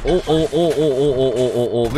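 panicked oh oh; yelping in alarm; walking on hot sand. Real, not acted. Mine explodes, stepping back.

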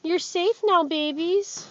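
loud, happy comfort to the dogs; joyful reassurance. Real, not acted. Rescuer loudly assuring the rescued dogs they're safe. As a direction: lift them up with loud joy.

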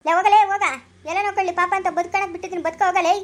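loud, scornful send-off; heated, contemptuous outburst; angry dismissal. Acted. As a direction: shout them away, then rebuke. Dismissing opponent in quarrel.

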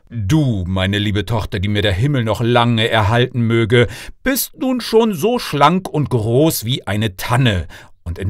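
proud father addressing his daughter, lightly played; fond king father.

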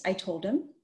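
ordinary delivery, nothing marked

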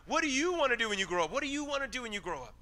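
put-on a fast, pushy grown-up nagging the kid; nagging question. Shown as a demonstration. Preacher mocking the question adults ask kids, fast and pushy. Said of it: "what's a better question".

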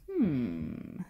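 low, drawn-out "hmm"; dubious hum. A narrator's reading. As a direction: hum slowly, sinking low with doubt. Fox realises he was fooled.

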